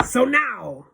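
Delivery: high, loud bark; Grand High Witch bark. A narrator's reading. Witch leader calling her audience to order, loud bark. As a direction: bark it to command attention. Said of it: "barked the Grand High Witch".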